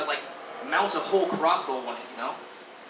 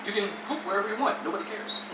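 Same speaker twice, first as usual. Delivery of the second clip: hard sell ad; 4 semitones higher than usual. Pretend. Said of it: "say it like an advertisement".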